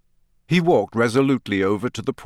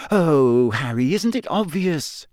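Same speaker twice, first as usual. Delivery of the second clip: exasperated sigh of a question; despairing; 6 semitones higher than usual. Acted. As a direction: at her wits' end with him. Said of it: "Hermione said despairingly".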